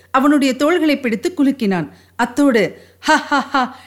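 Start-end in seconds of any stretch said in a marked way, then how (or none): 3.0-3.8 acted, spelt-out "ha ha ha"; mock hearty laugh. A narrator's reading. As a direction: laugh in mockery, without real volume. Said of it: "உரத்த குரலில் சிரித்துக்கொண்டே".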